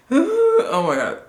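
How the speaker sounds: gasp, then a high, loud, slow oh my God; shocked at the number; real startled gasp. Real, not acted. Seeing alarming percentage.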